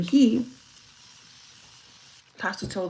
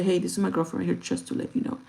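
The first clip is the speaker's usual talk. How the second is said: polite way; faster than usual. Shown as a demonstration. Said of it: "We say".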